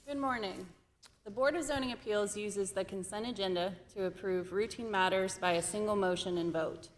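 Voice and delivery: losing her voice, a bit rough; hoarse voice. Real, not acted. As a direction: speak through a tired, fading voice. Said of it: "I'm losing my voice".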